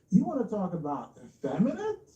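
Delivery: taunting question through a laugh. Real, not acted. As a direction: laugh it out as a jab.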